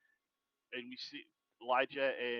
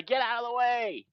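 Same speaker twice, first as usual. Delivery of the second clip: much higher and louder yell; shout; 11 semitones higher, 8 dB louder than usual. Acted. Warning a friend to move, full shout. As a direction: bellow it to clear the path.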